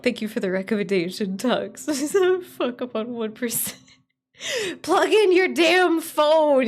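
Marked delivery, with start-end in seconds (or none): 4.8-6.7 louder, higher slow scold; mock stern slow scold; self-scolding. Real, not acted. Scolding herself.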